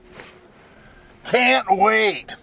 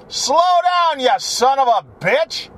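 mock yell at driver; 4 semitones higher than usual. Real, not acted. Yelling at other driver.

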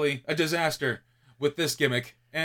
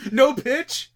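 laughing; 11 semitones higher, 8 dB louder than usual. Real, not acted. Cohost laughing at refusal.

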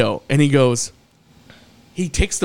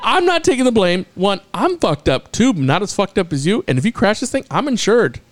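higher, heated argument; 5 semitones higher than usual. Retold or imitated. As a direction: argue back, worked up. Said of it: "I said".

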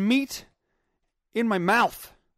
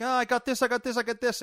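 eager arrival; 5 semitones higher, 3 dB louder than usual. Retold or imitated. Acting himself arriving with supplies.

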